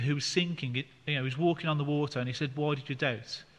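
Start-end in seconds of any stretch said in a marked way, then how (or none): 2.6-3.4 loving. Retold or imitated. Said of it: "He would have said it in more of a, a loving way".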